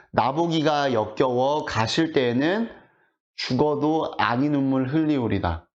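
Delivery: slow, measured reading of verse; poem recitation. Acted. Teacher quoting Kim So-wol's 진달래꽃 to the class, slow poem recitation. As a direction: recite the lines slowly, phrase by phrase.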